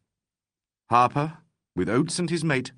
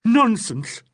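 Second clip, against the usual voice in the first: much higher and louder, spat back in fury; furious echo; 12 semitones higher, 7 dB louder than usual. Acted. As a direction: throw the word back in a rage. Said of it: "echoed Legg in a sort of fury".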